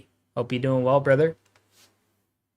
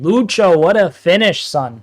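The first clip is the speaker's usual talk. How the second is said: excited reading; 4 semitones higher, 7 dB louder than usual. Retold or imitated. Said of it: "says Kid Fury".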